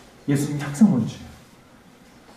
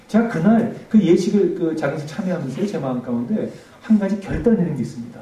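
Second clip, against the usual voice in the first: normal talking voice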